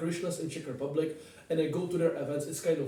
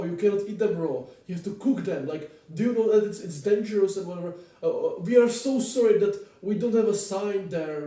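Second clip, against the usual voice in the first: higher, louder, anxious waiter warning a guest; worried staff voice; 4 semitones higher, 5 dB louder than usual. Retold or imitated. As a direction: play the flustered staff member, pitched up and pressing. Staff warning him about raw meat.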